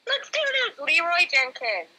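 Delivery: high-pitched mock charge into battle; mock kamikaze yell, starting very high; kamikaze battle cry. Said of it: "and his kamikaze, like".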